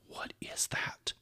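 hushed, slow whisper. Retold or imitated. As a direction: breathe the question out under your breath. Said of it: "And I'm like".

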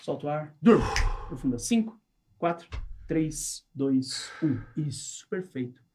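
calm, measured hypnosis countdown; slow hypnotist voice. Acted. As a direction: lull them under with each number. (voz lenta de hipnotizador)

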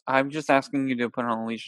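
softly imitated calm request; quiet, even explanation. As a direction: keep it mild and unbothered. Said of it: "he's being this calm".

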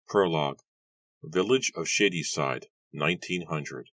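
measured, formal title read; audiobook announcer. Acted. Narrator welcomes listeners to an audiobook, formal announcement. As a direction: announce the production with clear pauses.

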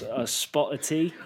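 hammy British accent; amateur stab at sounding British; British accent attempt. Shown as a demonstration. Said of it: "now you're getting better".

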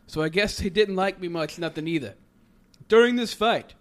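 hammed-up boxer speech to the crowd; Stallone impression. A host attempts Rocky Balboa's post-fight speech, admitting he can't do Stallone. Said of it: "I can't do a Stallone voice".

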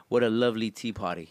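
lightly put-on British accent; a hint of British in the vowels. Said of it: "in a British accent".

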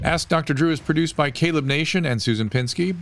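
measured announcer voice; disclaimer read. Acted.

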